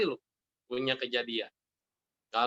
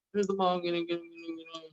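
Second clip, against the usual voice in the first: high mock-crying child, fading very soft; mock whimper dwindling to a murmur; 3 semitones higher, 6 dB quieter than usual. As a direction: imitate a tearful child explaining, trailing away. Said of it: "dia nangis-nangis".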